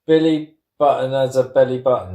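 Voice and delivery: rushed. Shown as a demonstration. Rattling off tongue twister fast.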